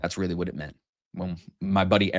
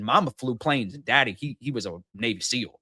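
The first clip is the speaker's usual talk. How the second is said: lightly imitated Southern storyteller; Southern accent. Host retelling a guest's words about his parents, light Southern accent. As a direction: retell it with a touch of Southern twang. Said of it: "He said".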